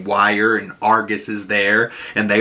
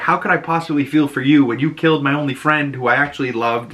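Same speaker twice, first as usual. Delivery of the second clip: emotional; 3 semitones higher, faster than usual. Retold or imitated. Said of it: "having so many emotions".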